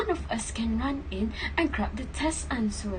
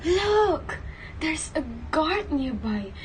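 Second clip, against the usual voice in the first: urgent alarm; 3 semitones higher than usual. Acted. Girl warns partner about the guard, panicked. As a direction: sound the alarm in a rush.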